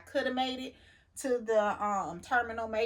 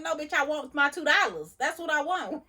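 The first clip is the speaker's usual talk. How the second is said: higher, louder mock snap at the cashier; angry retort; 7 semitones higher, 5 dB louder than usual. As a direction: put her in her place, hammed up.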